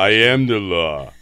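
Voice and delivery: Judge Dredd growl through barely moving lips; talking with mouth closed. Retold or imitated. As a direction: say it without moving your mouth. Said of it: "You gotta say it without moving your mouth".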